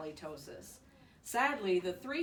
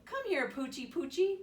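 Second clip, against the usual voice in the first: coaxing whisper; 9 semitones higher, 3 dB louder than usual. A narrator's reading. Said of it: "whispered the other".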